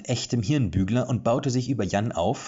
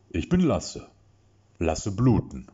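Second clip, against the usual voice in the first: put-on big baby voice; 3 dB louder, slower than usual. A narrator's reading. Lasse introducing himself to Erik in a big baby voice. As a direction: talk like an overgrown toddler. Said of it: "eher zu einem großen Baby passte".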